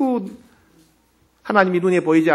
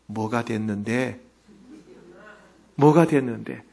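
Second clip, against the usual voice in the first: slow, softer, probing question; Holy Spirit asking; 5 semitones lower, 6 dB quieter than usual. Retold or imitated. Holy Spirit questioning the overjoyed pastor, slow and soft. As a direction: ask it quietly and slowly, gently pressing. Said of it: "근데 성령님이".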